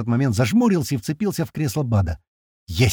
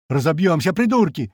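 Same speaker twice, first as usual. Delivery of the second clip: angry cry rising high; alarmed yell; 5 semitones higher than usual. A narrator's reading. Man floundering on the floor, alarmed yell. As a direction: shout at them in rising alarm. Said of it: "орёт Рыжий".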